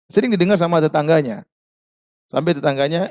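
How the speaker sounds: ordinary talk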